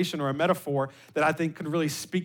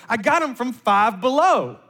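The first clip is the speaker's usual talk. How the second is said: imitated daughter's reply; 4 semitones higher, 4 dB louder than usual. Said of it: "she responds like this".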